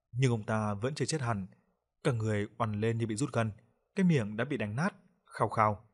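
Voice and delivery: usual speaking voice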